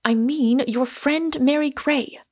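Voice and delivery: tart retort. A narrator's reading. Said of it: "retorted Diana with equal tartness".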